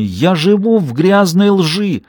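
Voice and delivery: husband shouting at his wife while pacing the kitchen. A narrator's reading. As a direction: pace and yell out his grievances. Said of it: "крича, расхаживать по кухне".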